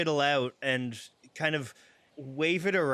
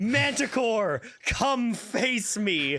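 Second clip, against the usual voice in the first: slow, high, drawn-out, mildly intimidating call-out; 6 semitones higher than usual. Playing a character who calls out a manticore to fight: booming loud challenge. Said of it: "use his thaumaturgy to make his voice boom loud and say".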